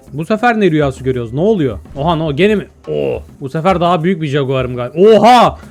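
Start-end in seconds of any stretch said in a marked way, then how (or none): 5.0-5.6 loud, high-pitched astonishment with laughter; laughing, louder disbelief; amazed outburst. Real, not acted. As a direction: exclaim in delighted shock. Amazed at becoming a big creature.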